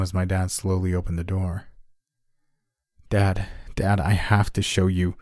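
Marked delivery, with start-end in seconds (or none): 3.1-5.2 yelped, out of breath. Acted. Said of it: "I yelped, catching my breath".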